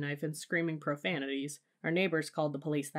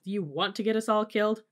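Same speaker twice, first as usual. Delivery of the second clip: higher, louder outraged question; angry alarm; 5 semitones higher, 5 dB louder than usual. A narrator's reading. Dad fighting for the wheel, alarmed shout. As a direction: shout at a reckless driver.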